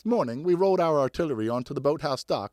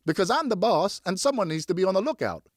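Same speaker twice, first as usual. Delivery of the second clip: put-on bossy older brother; 6 semitones higher than usual.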